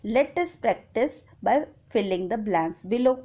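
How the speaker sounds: reading the rule aloud very slowly; slow, deliberate dictation of an English rule; slow textbook reading. Acted. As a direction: dictate it word by word to the class.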